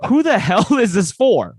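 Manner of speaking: loud, slow, disbelieving; incredulous outburst. Retold or imitated. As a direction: blurt it out in total disbelief. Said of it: "I was like".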